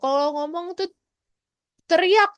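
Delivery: high acted protest rising to a loud last word; loud village talk. Villager explaining how people talk back home, mock loud protest. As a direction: pitch it up and punch out the final word loudly. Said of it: "di kampung aku emang nadanya keras".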